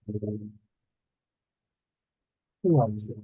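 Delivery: muffled underwater audio. Real, not acted. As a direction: sound like you're talking underwater. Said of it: "It sounds like you're in water".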